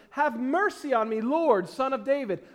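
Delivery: a touch of calling out; mild crying out. Acted. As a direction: read it as an understated cry for help. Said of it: "began to cry out".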